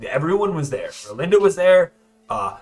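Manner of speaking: eager prisoner bluffing; eager Werner. Acted. Werner bluffing to the prisoner who questions him. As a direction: talk fast to be believed.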